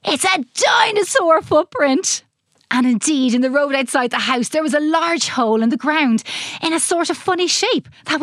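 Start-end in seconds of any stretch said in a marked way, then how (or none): 0.1-2.2 excited. A narrator's reading. Excited child discovery.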